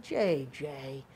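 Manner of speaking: patient scolding, building at the end; weary stern dean. Retold or imitated. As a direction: dean to student, slow and exasperated. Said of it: "He's like".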